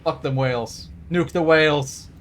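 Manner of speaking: brash whaler bravado building to a shout; cocky growl rising into a yell of nuke the whales; mock gung-ho rant. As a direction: play a trigger-happy brute egging himself on, ending loud. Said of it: "He just goes".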